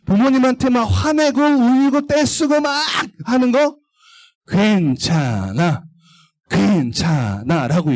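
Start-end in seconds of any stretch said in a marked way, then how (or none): 4.5-7.9 slow, coaxing little voice; coaxing Satan. Acted. Teacher voicing Satan tempting children, slow and coaxing. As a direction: lure them in gently, slowly. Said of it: "마음속으로 막 속삭여요".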